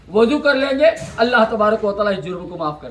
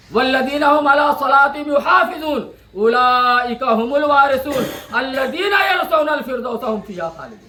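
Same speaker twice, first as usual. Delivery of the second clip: fervent Quranic recitation. Acted. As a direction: chant the verse with mounting fervour. Quranic verse recited in sermon. (जोश के साथ क़ुरआन की तिलावत)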